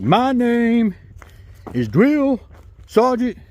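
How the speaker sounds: high voice, Dietrich said as "Dietwich", w for r; says w for r. Retold or imitated. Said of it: "he had a speech impediment. He couldn't say his R's".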